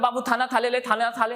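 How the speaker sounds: put-on cooing lisp of a parent to a baby, थाना थाले; mock baby talk. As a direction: coo it like a doting aunt. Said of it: "उन लोग तोतलाने लगते हैं".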